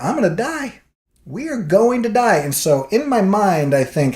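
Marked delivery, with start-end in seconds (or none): 0.0-2.4 a touch of higher mock dread; half-joking doom; mock panic. Passenger imitating his own terror, lightly higher. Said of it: "I'm like".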